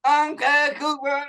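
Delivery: high, slow hick drawl with a dip; country bumpkin with dip. Shown as a demonstration. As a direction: talk like a redneck with chew in your lip. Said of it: "talk like a country bumpkin with a, like, a dip in his mouth".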